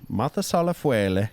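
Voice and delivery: "Mothus à la feuille" Italian-style, feuille as "fwele"; Italian-sounding French. Shown as a demonstration. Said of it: "No, it sounds Italian".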